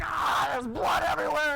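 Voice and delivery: high, loud mock scream; hammed-up cry of panicked agony. Bitten man rolling on the ground, screaming. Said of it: "he's screaming and he's just like".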